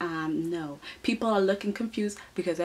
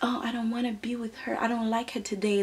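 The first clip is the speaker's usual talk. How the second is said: whisper; 2 semitones higher, 3 dB quieter, much faster than usual. Retold or imitated. Quoting model refusing to walk.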